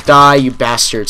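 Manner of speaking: slow gamer snarl; angry growl at enemy. Real, not acted. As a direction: drag it out as you shoot him. Shooting enemy in game.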